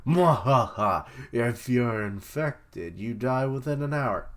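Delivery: slow villain cackle into a megaphone; mad scientist. Retold or imitated. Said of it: "He's got a big old megaphone".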